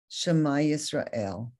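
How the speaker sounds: slow, lightly tearful "Shema Yisrael"; a hint of weeping prayer; mild sobbing prayer. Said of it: "And he sobs".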